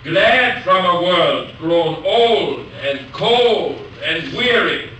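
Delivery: slow, weighty reading of the line; poem recital. Shown as a demonstration. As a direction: lean into each word of the verse. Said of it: "Listen to this".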